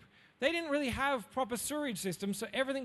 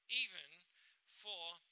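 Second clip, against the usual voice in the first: voice cracking; 3 semitones lower, 12 dB quieter, slower than usual. Real, not acted. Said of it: "oh, my voice just changed".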